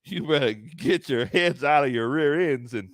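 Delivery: slow, lightly voiced mobster scolding; a hint of a 1920s tough guy laying down the law; 1920s gangster. Owner telling the team to shape up, a slow mild gangster voice. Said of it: "you sound like a nineteen twenties gangster".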